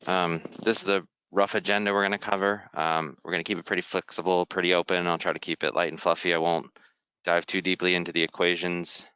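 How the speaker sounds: talking through a face mask; muffled speech behind a mask. Real, not acted. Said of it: "apologize for the muffled, uh, mask noises".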